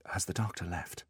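soft, careful question to a father; quiet, tender prompting; gentle. A narrator's reading. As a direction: ask it gently. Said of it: "he said gently".

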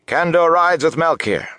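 very high, loud rallying cheer; crowd cry. A narrator's reading. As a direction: shout it as a jubilant battle cry. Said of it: "Cries of".

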